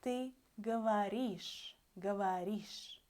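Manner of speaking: говоришь with its ending said clearly; slow careful говоришь; Russian demo. Shown as a demonstration. Teacher modelling говоришь for the students. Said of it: "you say".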